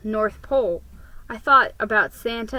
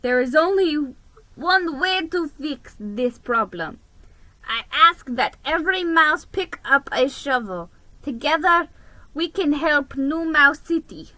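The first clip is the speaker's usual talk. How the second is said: higher, louder official voice of the mayor; mayor announcing; 4 semitones higher, 3 dB louder than usual. A narrator's reading. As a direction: address the whole city from the podium. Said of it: "the mayor continued".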